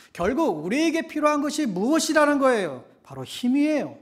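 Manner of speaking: loud, high, emphatic sermon climax; full-force preaching. Real, not acted. Preacher telling the congregation they need strength, forceful preaching.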